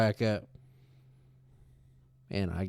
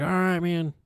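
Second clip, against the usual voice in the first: mock casual reply; 8 semitones higher, 4 dB louder than usual.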